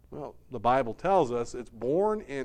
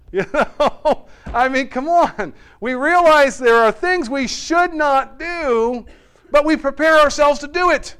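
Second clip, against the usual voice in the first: loud, high preacher's incredulity; animated exclamation; 11 semitones higher, 10 dB louder than usual. Real, not acted. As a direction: drive the point home at full volume. Preacher exclaims at shared human folly.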